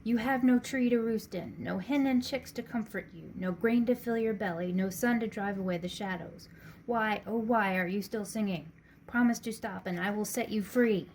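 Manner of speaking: mayor bleating at the caged rooster. Acted. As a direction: whine at the rooster, half pleading.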